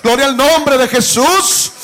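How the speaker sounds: slow, ringing preacher's proclamation; sermon cadence, swelling on each gloria; fervent preaching. Acted. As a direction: proclaim it to the congregation with full force.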